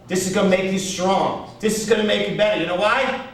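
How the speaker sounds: rally him with a lifted, insistent voice; pep talk. Retold or imitated. Agent bucking up his disappointed client, rousing pep talk.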